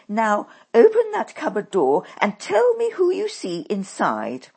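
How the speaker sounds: high, loud witch command; commanding shout. A narrator's reading. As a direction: order it with full force.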